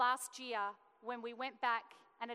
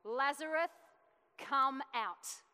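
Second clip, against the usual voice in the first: a preacher's ringing call to the dead; commanding shout; 2 semitones higher, 6 dB louder, slower than usual. Acted. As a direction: call the name out loud and strong. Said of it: "Then Jesus shouted".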